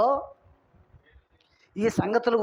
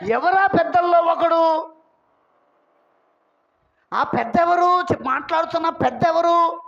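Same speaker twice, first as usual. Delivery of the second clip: raised, insistent questioning; challenging preaching; 7 semitones higher, 4 dB louder than usual. Real, not acted. Preacher asking congregation who the elder is, raised challenging preaching.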